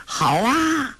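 put-on high, delighted child's cheer; gleeful cheer. A narrator's reading. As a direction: clap and cheer for the win. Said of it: "托雷拍手笑道".

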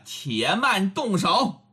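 plain reading voice

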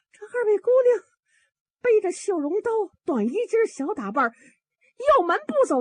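high, tearful, breathless report; panicked alarm. Acted. Old maid reports the girls fled over the roof, panicked. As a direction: blurt it out in a frightened rush.

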